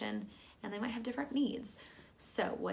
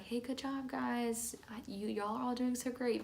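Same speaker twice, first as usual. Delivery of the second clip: higher, bubbly gushing praise; generic cheery praise; 4 semitones higher than usual. Shown as a demonstration. Teacher giving the whole class vague praise, high and bubbly. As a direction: gush over them all at once. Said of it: "Instead of being like".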